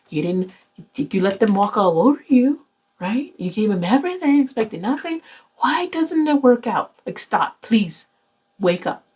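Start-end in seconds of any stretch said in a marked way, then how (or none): 5.6-6.9 high, slow mock bafflement; sarcastic question. Reader mocking viewers who repeat mistakes, sarcastic. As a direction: drag it out in disbelief.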